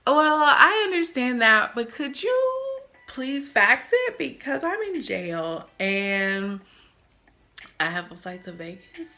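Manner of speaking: overly polite begging, half-mocking; mock polite plea. Begging the DMV lady to fax proof, mock polite. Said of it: "So I'm like".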